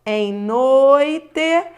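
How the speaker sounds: "noite" loud and stretched on the oi; vowel-to-semivowel demo. Shown as a demonstration. Teacher breaking down the example, "noite" exaggerated with a long, loud oi. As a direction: hold the o of "noite" long, then glide to i. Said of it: "você foi da vogal".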